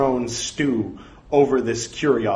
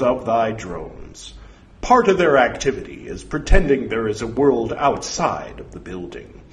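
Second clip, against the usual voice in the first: ominous voice from beyond; 4 dB louder than usual. Acted.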